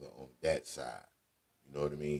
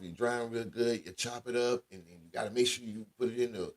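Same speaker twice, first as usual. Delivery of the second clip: higher-pitched imitation of grandma; grandmother giving recipe; 6 semitones higher than usual. Grandma tells grandchild how to cook collard greens, higher imitated voice. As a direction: mimic grandma rambling through the steps.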